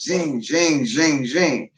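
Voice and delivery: repeated zinging saw noise; rhythmic run of spoken zings; imitated sawing sound. Shown as a demonstration. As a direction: mimic a wire saw, stroke by stroke. Imitating a hand saw's motion.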